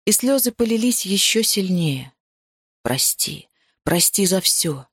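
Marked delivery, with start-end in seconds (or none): 2.8-4.9 male apology. Acted. Hero apologises, voiced lower. (тихое мужское «прости», низко и медленно)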